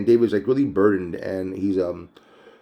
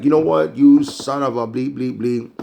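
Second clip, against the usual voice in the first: mad. Retold or imitated. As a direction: imitate an angry king, self-censored. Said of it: "He's mad. He's like".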